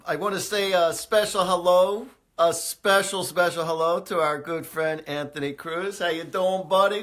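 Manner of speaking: a big, loud, high-pitched hello to a buddy; excited shout-out. Real, not acted. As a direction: greet your friend like you're thrilled he's listening. Radio shout-out to a friend.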